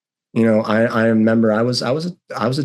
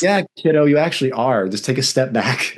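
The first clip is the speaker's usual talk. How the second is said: mother's calm reply; 4 semitones higher than usual. Retold or imitated. Mother answering son in story.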